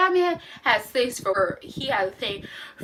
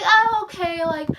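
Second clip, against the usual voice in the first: mock ditzy detective. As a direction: parody her as clueless. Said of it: "she's like".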